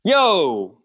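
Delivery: high, delighted shout-out; excited exclamation. Real, not acted. Player hears a fellow New Yorker, excited. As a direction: react with sudden excited recognition. Learns other is from New York.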